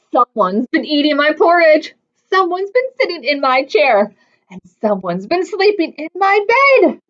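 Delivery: lightly voiced complaining bear; a bear grumbling over his things; grumbly bear voice. Bear complains like Goldilocks tale.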